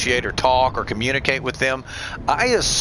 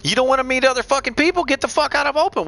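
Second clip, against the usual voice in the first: retold exasperated yell; 9 semitones higher than usual. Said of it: "I said".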